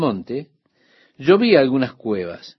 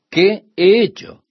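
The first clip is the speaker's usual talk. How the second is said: higher, louder plaintive protest; pleading David; 6 semitones higher, 3 dB louder than usual. Retold or imitated. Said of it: "Él siempre estaba diciendo esto".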